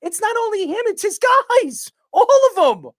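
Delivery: worked-up sports talk rant; heated rant. Real, not acted. Heated rant about Stephen A.'s crew.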